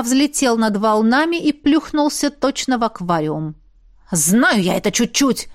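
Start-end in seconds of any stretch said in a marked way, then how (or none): 4.1-5.5 exclaimed. A narrator's reading. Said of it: "воскликнул Килли".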